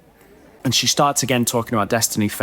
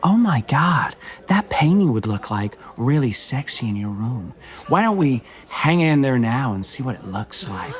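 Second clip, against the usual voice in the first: put-on sexy Californian accent. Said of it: "sexy Californian accent".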